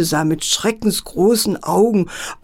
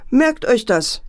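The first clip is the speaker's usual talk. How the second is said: scolding mother; 8 semitones higher than usual. A narrator's reading. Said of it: "Mutter guckte ärgerlich".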